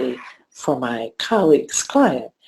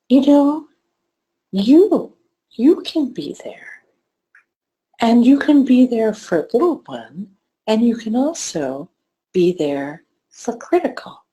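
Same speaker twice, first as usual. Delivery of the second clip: animated reassurance; 7 semitones higher than usual. Retold or imitated. Therapist reassuring client animatedly.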